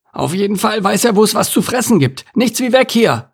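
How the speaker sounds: high, panicked call to flee; alarmed cry. Acted. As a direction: urge him to get away fast. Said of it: "rief Anton".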